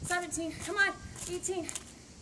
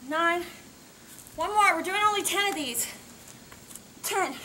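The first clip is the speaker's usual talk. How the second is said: coach shouting; 9 dB louder than usual. Real, not acted. Coach pushing through last reps.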